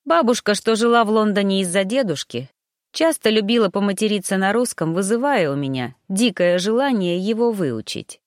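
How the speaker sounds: ordinary delivery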